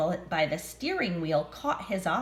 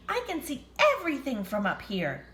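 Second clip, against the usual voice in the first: mouse voice; 5 semitones higher, faster than usual. Acted.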